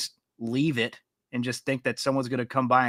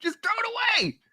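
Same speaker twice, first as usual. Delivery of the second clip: laughing; slower than usual. Real, not acted. Laughing while teasing friend.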